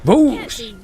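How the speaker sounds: hammed-up loud "Boosh!"; mock battle cry. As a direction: yell it like a punch. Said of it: "I'm all like".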